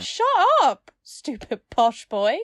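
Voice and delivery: shouting a jeering insult, high-pitched; mock angry insult. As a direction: sneer it high like a playground taunt. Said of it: "you would be like".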